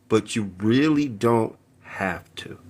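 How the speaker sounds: soft unvoiced whisper; whispered aside. Real, not acted. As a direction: drop to a hush for the advice. Urging restraint, hushed aside.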